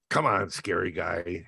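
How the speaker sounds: lightly voiced gruff four-star general. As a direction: general calling him along, a touch gruff and slow. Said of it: "And he had a real gruff voice".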